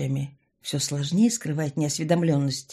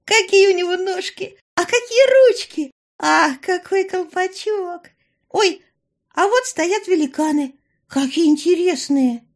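very high, louder, gushing; squealing with delight; 13 semitones higher, 7 dB louder than usual. A narrator's reading. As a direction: squeak it like an excited tourist. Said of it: "буквально пищала от восторга".

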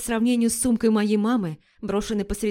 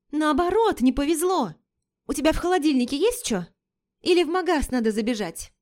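put-on girlfriend voice; 6 semitones higher than usual. Лика, высокий голос.

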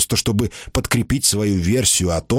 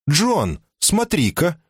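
higher, eager call; excited call; 8 semitones higher, slower than usual. Acted. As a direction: call him over eagerly. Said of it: "сказала Симона".

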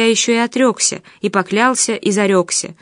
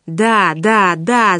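yelled; much slower than usual. A narrator's reading. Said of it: "заорал Павел".

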